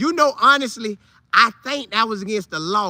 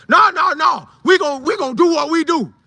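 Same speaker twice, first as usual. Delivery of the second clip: higher, louder, hyped; excited insistence; 6 semitones higher, 4 dB louder than usual. Retold or imitated. Players brushing off the teller's warning, higher and hyped.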